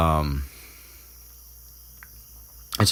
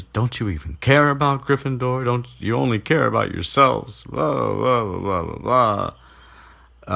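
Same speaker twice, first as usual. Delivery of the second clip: higher-pitched mock indignant scolding; mock nagging; 7 semitones higher than usual. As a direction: nag on, dissolving into blah-blahs. Mocking Hermione's scolding of her friends.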